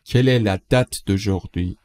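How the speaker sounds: slow, deliberate question; slow model read. Shown as a demonstration. Teacher models the French question slowly for learners. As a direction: lay out each word slowly. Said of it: "teacher models the question slowly".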